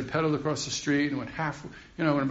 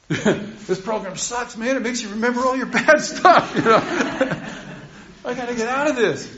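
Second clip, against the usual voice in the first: mock whine; 9 semitones higher, 4 dB louder than usual. Retold whiny complaint about program.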